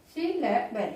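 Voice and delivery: সিলেবেল split into three beats, সি-লে-বেল; syllable by syllable. Shown as a demonstration. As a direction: mark each syllable of সিলেবেল. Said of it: "এখানে three সিলেবেল". (সিলেবেল তিন ভাগে, সি-লে-বেল)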